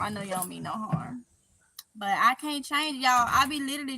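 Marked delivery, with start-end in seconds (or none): 0.0-1.2 lower, softer repeat of I know you don't mean no harm; quiet, sincere repeat; soft reassurance. Real, not acted. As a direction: gently reassure the viewers.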